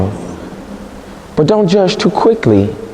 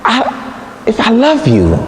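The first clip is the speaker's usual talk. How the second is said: much higher, slow, hurt questioning; Delilah pleading; 5 semitones higher, 3 dB quieter, slower than usual. Acted. Delilah begging Samson, much higher and slow. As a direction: ache for love she can't find. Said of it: "She says".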